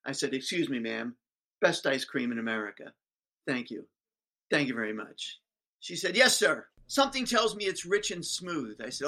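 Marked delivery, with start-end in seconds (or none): 0.3-5.4 smug. Retold or imitated. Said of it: "I was insufferable in those days". 6.1-8.8 a higher, sugary teacher voice; sly teacher. Retold or imitated. Teacher sweetly baiting the ice cream man.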